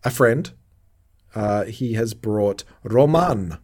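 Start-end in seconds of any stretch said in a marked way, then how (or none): 2.8-3.6 "Roman" drawn out, with a long second syllable; character's pronunciation. Retold or imitated. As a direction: linger on "Roman" as the show says it. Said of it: "I love the way they pronounce it".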